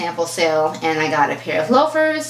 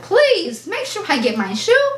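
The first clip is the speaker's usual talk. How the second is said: pleading; 10 semitones higher than usual. Retold or imitated. Retold plea to sales rep.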